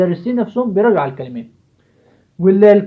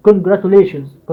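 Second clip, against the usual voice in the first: congratulations very slowly, syllable by syllable; split into syllables; much slower than usual. Shown as a demonstration. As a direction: break congratulations into its parts slowly. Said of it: "فقسمها كده". (قول congratulations مقطع مقطع ببطء)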